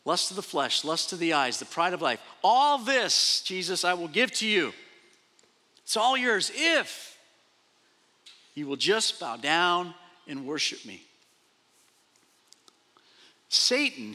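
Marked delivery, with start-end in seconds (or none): 2.4-4.7 tempter's voice. Acted. Preacher voicing Satan's offer. 5.8-11.0 sly tempter. Acted. Preacher voicing Satan.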